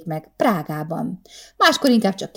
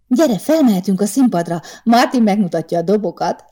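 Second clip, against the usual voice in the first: put-on eager girlfriend calling her friend over; bubbly invite, a bit louder; gushing; 3 semitones higher, 4 dB louder than usual. Friend gushing about going up to the drums, excited.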